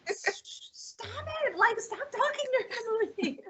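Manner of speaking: high, laughing plea to stop talking; laughing while imitating him; mock husband shushing. Husband at the movie, begging her to stop talking, laughing. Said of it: "my husband was like".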